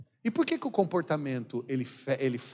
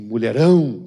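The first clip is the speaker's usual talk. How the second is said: loud, drawn-out mock catcall; admiring catcall; 3 semitones lower, 12 dB louder, slower than usual. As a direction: call it out with showy admiration. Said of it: "aí você fala assim".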